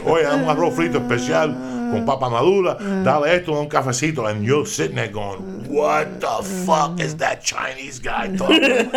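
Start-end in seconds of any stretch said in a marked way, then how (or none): 0.1-4.3 loud, high-pitched Cuban Spanish; fast Cuban Spanish. Retold or imitated. Imitating Chinese waiter at a Cuban restaurant, Cuban Spanish. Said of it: "Me talking Spanish. Real fast". 5.7-9.0 high, loud, drawn-out disbelief; loud bafflement. Acted. Baffled diner hearing a Chinese man speak Spanish, incredulous.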